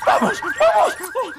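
high urging. Acted.

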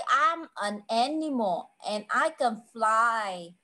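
put-on slow, measured English for a young learner; teacher's unhurried riddle delivery; slow riddle clue. Shown as a demonstration. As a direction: draw the clue out slowly so the child can follow. Teacher gives riddle clue to child.

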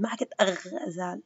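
أغزال without the l; ما stressed with a rise; wrong form. Shown as a demonstration. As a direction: drop the l on purpose. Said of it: "اسمعوني كيف حكيت".

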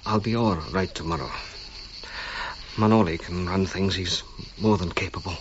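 low, tired, halting voice of a sick man; weak with fever. Acted. Feverish archaeologist giving in to his friend, weakly. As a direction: push the words out through the fever.

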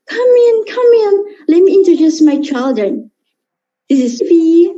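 high, welcoming hostess voice; Miss Molly's voice. Acted. Miss Molly welcoming guests into her home, high voice. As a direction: greet guests in a bright high voice. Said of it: "Like Missus Molly first".

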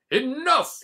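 loud royal outburst; king shouting enough. A narrator's reading. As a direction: bark it like a fed-up king. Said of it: "he said".

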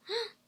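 high, soft sharp intake of breath; surprised gasp. Real, not acted. Moved by a viewer's comment.

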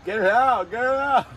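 high, urgent get it out; excited urging. Real, not acted. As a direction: urge them on, high and quick. Urging friend with chip stuck.

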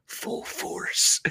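eerie whisper from the dark woods; spooky whisper. Acted. Unseen someone in the black woods calling to Fatty, whispered. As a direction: whisper it like a horror-story voice. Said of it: "he hears someone whisper".

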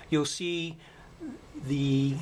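ordinary talk

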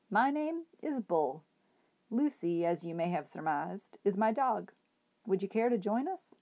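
courtly, genial tramp's invitation; hobo voice. Acted. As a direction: invite him warmly, with ceremony. Bull invites Edward along.

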